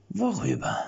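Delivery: sly, watchful, a touch high; lurking voice. A narrator's reading. Jan answering Erik's sword slyly and watchful. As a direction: fish for what he knows. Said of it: "mit lauernder Stimme".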